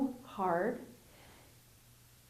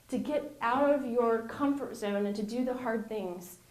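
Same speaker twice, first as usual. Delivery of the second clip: ordinary talk, nothing marked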